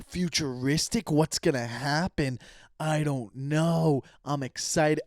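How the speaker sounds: slow, drawn-out mock wonder; acted excited anticipation. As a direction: stretch the words in hammed-up anticipation. Acting out excited moviegoer reaction.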